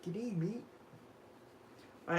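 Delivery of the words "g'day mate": own Australian G'day. Shown as a demonstration. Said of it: "that's how I say it".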